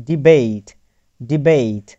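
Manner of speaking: ডিবেট with "ey" in the second syllable, falling; modelled "ey" vowel. Shown as a demonstration. Teacher drills the same rule, ডিবেট with ey vowel and falling tune. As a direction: repeat ডিবেট deliberately, spaced out for learners. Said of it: "এর উচ্চারণ হয়ে গেছে".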